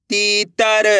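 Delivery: तीतर with ती held long. Shown as a demonstration. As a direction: stretch the ee in तीतर. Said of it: "मेरे साथ साथ इनको रिपीट करना है".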